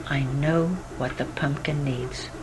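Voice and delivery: soft, secretive whispered reveal. Acted. Doctor whispers his diagnosis to the children, hushed. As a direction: breathe it like a secret.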